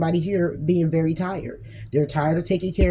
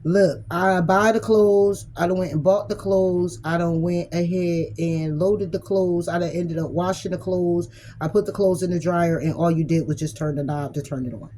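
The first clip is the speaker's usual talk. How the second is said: mock justifying partner. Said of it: "this person may justify it like".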